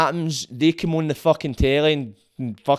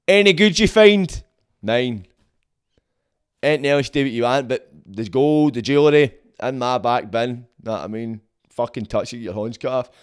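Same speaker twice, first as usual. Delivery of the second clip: mock king's decree; 3 semitones lower than usual. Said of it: "See, that was a king".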